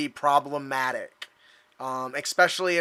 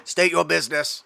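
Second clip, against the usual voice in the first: drone voice. Acted. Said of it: "they should have a really cool voice".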